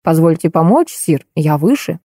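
a marshal calmly pointing out he is taller; calm courtly offer. Acted. Marshal Ney to Napoleon, calm courtly выше. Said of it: "сказал".

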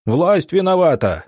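sudden loud angry yell from the crowd; shout. Acted. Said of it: "вдруг крикнул кто-то".

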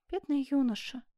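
gentle, understated sigh of sympathy; sighing pity. Acted. Seamstress pities the jailed youth, sighing. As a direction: sigh it with mild sorrow. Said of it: "вздохнула Жервеза".

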